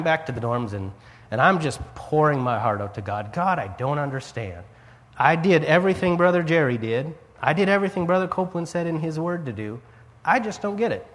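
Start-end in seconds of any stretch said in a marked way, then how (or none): 3.3-11.0 retold tearful prayer.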